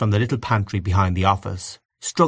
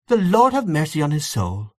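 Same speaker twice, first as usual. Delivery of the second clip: higher, pitying blessing; compassionate; 6 semitones higher than usual. A narrator's reading. Aunt Kate blessing the late old gentleman, compassionate. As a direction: lift the voice in sympathy. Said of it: "said Aunt Kate compassionately".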